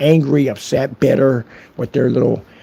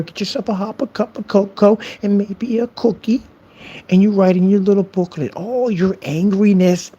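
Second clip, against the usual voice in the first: higher, mock-cozy coddling; sarcastic soothing; 6 semitones higher than usual. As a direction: coddle the troll with fake sweetness. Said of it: "It's the same sarcasm I use".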